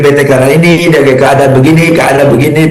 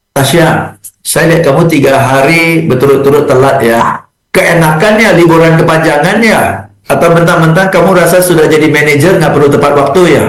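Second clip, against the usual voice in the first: mock attacking boss; faster than usual. Shown as a demonstration. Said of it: "I'm not attacking you".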